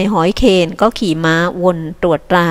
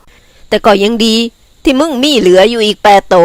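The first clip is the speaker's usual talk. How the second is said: slow, slightly higher comforting voice; friend consoling; 3 semitones higher, 4 dB louder, slower than usual. Acted. Friend consoling herder over lost buffalo, slowly. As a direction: console him gently.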